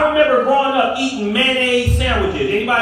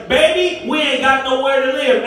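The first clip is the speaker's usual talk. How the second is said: pleading parent; 2 semitones higher than usual. Pretend.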